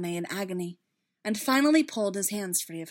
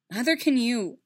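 loud, higher-pitched retort; distraught retort; 5 semitones higher, 9 dB louder than usual. A narrator's reading. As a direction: turn the protest on the next listener. Distraught character rejects a promise.

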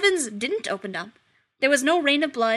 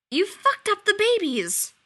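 blunt accusation; 10 semitones higher, 4 dB louder, slower than usual. Acted. Famine accusing husband.

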